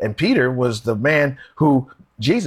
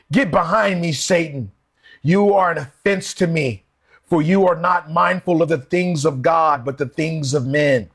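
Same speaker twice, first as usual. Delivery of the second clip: a firm, raised rebuke as Jesus; Jesus turning on Peter, a touch raised and stern; harsh rebuke; 3 semitones higher than usual. Acted. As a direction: push Peter back with a stern command. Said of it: "Jesus spoke to him harshly".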